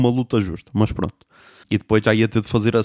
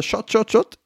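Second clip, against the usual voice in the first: high, quick shot, shot; mock pouring sounds; 10 semitones higher, slower than usual. Comic mimicking a bartender pouring shots, high.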